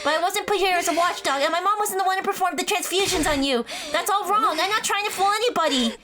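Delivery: rising, urgent denial; defensive plea. Acted. Denying she was put here as watchdog, pleading. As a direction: protest with pitch climbing line by line. Denies being a planted watchdog.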